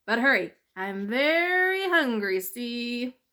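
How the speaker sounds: a lightly voiced sly weasel; gangster-ish weasel saying see. Weasel doubting the mouse, a hint of menace.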